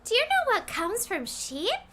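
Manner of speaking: normal talking voice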